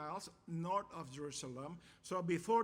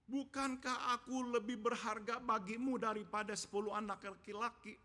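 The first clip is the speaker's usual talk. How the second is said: lightly acted husband's pleading questions, pitched higher; oblivious husband; 5 semitones higher, 3 dB louder than usual. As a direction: voice a clueless husband questioning his wife, raised pitch. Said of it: "he obliviously asked this question".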